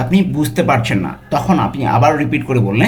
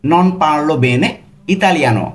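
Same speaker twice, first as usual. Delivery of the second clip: very slow, joined-up Italian; the full sentence, slow and smooth; slow whole phrase; much slower than usual. Shown as a demonstration. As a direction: say it slowly in one go. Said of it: "এটার Italian কি হবে".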